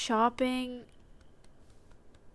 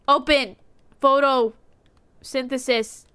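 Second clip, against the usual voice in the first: loud command; 4 dB louder than usual. Acted. Commanding the booth to open.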